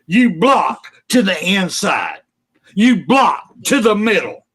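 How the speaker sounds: genuinely furious fan venting; real angry rant. Real, not acted. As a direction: let the frustration boil over. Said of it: "I'm fucking pissed off".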